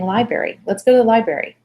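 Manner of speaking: "library" said as "lie-berry"; casual "library" with the first R dropped; own old mispronunciation. Retold or imitated. Mom inviting the kids, "library" slurred to "lie-berry". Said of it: "how was I saying it".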